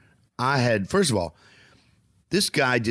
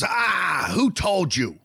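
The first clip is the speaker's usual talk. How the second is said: alarmed father; 8 semitones higher, much slower than usual. Retold or imitated.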